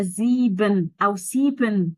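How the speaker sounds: "زيبن" and "سيبن" with a full "ben" ending; wrong pronunciations. Shown as a demonstration. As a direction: slowly model the mistakes "زيبن", then "سيبن" with s. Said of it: "برضه السيبن غلط". ("زيبن" و"سيبن" بنطق غلط وبِن واضحة)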